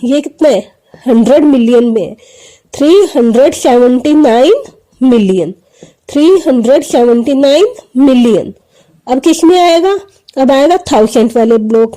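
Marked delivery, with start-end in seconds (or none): 2.7-5.5 loud number read. Shown as a demonstration. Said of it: "और इसको कैसे करेंगे?". 6.1-8.5 loud number read. Shown as a demonstration. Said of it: "और इसको कैसे करेंगे?".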